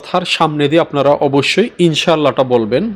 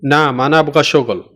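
slow teaching. Shown as a demonstration. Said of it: "হ্যাঁ, আমি কাজ করব".

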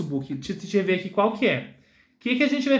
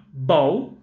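low rising model word; 5 semitones lower than usual. Shown as a demonstration. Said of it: "Vamos repetir com o teacher assim".

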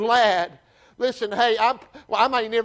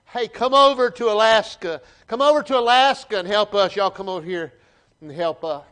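hollering plea; 4 dB louder than usual. Acted. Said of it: "he's hollering, he's crying out".

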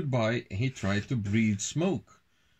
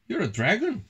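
high-pitched exclaimed accusation; read-aloud yell at moderate volume; mild storybook yell; 8 semitones higher, faster than usual. A narrator's reading. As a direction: call it out high, without real shouting. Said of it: "yelled James".

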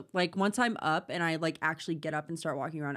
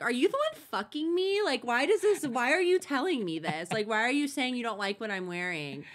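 higher-pitched incredulous questioning, easing down; mock indignation; 3 semitones higher than usual. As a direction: protest in disbelief at the insult. Acted indignant inner reply to criticism.

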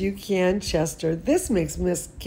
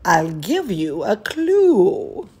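said kindly; 3 semitones higher, 4 dB louder than usual. Acted. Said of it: "Her teacher said kindly".

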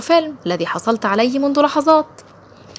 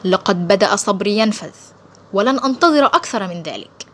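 sharp tone. Acted. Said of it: "صاح الكولونيل بحدة".

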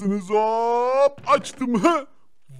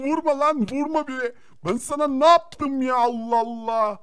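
mock panicked yelling; 4 semitones higher, 3 dB louder than usual. Attacked by red bull.

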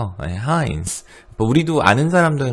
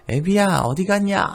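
high mock old-fashioned call; play-call a child, old-style; Joseon elder calling; 10 semitones higher than usual. 조선시대 어른이 아이를 부르는 장난스러운 목소리.

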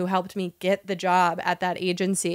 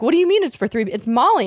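incredulous; 3 semitones higher, 3 dB louder than usual. Retold or imitated. Confused quote of herself.

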